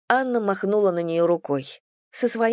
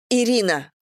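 shouted name; 4 semitones higher than usual. Acted. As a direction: snap her name out at the friend. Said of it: "закричала она".

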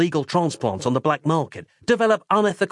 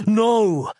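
higher, louder terrified scream; 8 semitones higher, 4 dB louder than usual. Acted. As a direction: cry it out in horror. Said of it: "screamed Nick".

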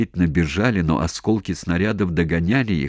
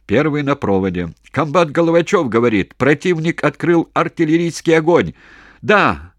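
loud, much higher yelling over shellfire; shouting into phone; 9 semitones higher, 5 dB louder than usual. Acted. Commander yelling into the field telephone to HQ. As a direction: yell down a bad phone line. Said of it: "кричал в трубку Головачёв".

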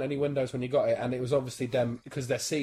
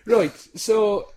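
put-on Irish accent; 3 semitones higher than usual. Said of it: "I'm Irish".

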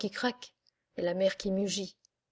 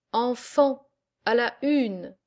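commander's call; 3 semitones higher, slower than usual. Acted. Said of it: "il dit".

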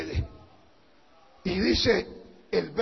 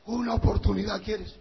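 softer, measured divine reply; the Lord answering; 3 semitones lower, 7 dB quieter than usual. Acted. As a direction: answer the beggar quietly as God. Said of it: "Y el Señor le dice".

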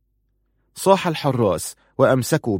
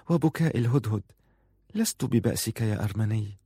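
measured, quiet and deliberate; unhurried and soft; 6 dB quieter than usual. Acted. Farun calmly answering, soft and unhurried. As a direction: let each phrase settle gently. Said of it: "قالت في تأن".

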